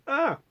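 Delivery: short, high "ah" of fright; mock startled cry, kept soft; startled waking gasp. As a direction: jolt awake with a small high yelp. Character jolts awake from dream.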